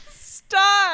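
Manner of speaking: high laughing stop. Real, not acted. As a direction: squeal it while laughing. Laughing at friend's question.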